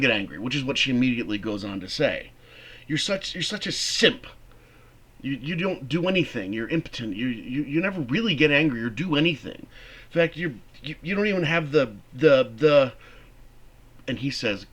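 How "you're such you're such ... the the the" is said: berating. Acted. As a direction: pile on the insults, stumbling. Martha berating George.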